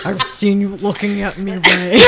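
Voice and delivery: Kylo Ren impression. Shown as a demonstration. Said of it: "This is my good Kylo Ren impression".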